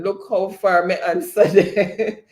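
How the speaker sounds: patois line broken by a laugh; laughing patois quote. Retold or imitated. Host laughing while reading Ricardo's patois chat. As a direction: laugh partway through the quote. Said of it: "Ricardo is saying".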